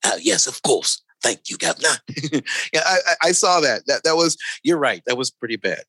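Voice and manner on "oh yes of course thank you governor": put-on Cockney accent. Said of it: "Oh, with the Cockney".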